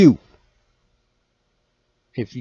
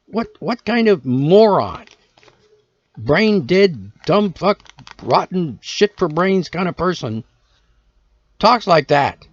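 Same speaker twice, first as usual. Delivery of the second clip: louder, slower indignant tirade; real angry rant building louder; 2 semitones higher, 5 dB louder, slower than usual. Real, not acted. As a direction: lash out at the haters. Ranting at haters.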